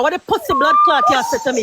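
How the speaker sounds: yelling angrily in a quarrel; furious outburst; angry shout. Real, not acted. Heated argument, insults traded.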